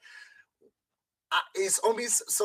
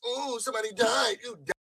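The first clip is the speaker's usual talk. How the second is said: high mock "ooh", raised voice; mocking imitation; 6 semitones higher than usual. Quoting how the other man talked about a death, mocking. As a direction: mimic someone making light of bad news. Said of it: "that's how I'm communicated about".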